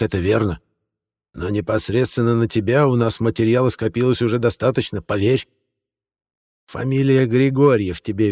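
put-on cold warning from a stern old lady; menacing old woman. A narrator's reading. Old woman threatens witch.

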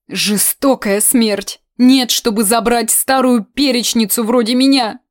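a folksy aunt wailing and pleading; rustic old woman, pleading; old aunt lamenting. Acted.

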